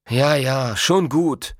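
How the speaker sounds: mildly grumpy brush-off; grumbling. A narrator's reading. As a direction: give in with a grumble. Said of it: "murrte Zolfo".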